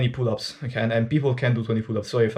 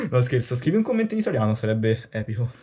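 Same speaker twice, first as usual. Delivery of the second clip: Italian voice; faster than usual. Real, not acted. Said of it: "That's my Italian voice reveal".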